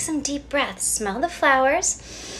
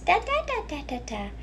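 put-on high baby babble; babbling baby then mother; 4 semitones higher than usual. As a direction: play both baby and mom. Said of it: "Then the baby babbles".

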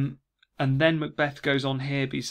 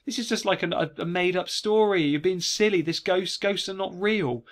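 mildly scolding wife, pitched higher; dismissive scolding; 5 semitones higher than usual. Acted. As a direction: brush it off as silly nonsense. Wife scolding him in the play.

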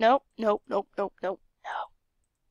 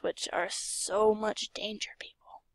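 whispered aside; 2 semitones lower, 6 dB quieter, slower than usual. Real, not acted. Aside to the viewers.

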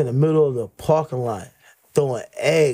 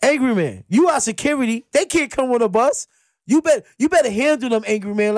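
raised, pushy urging; a bit higher, insistent demand; bossing security; 6 semitones higher than usual. Retold or imitated. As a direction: tell security to do his job. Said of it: "I said".

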